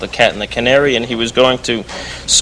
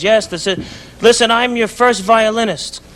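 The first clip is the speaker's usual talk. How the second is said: higher put-on Jewish London accent; 8 semitones higher than usual. Prank caller fooling the composer, Jewish London accent. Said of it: "Now I'm talking in a Jewish accent from London".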